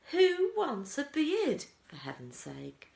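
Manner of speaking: very high, loud disgusted cry; bratty girl's outcry. A narrator's reading. Veruca Salt crying out at the beard idea, shrill loud. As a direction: shriek it like a spoiled girl. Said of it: "cried Veruca Salt".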